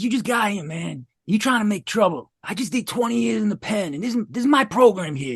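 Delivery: retold confrontation. Old inmate warns newcomer about his program, retold confrontation.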